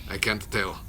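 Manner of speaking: ordinary talk, nothing marked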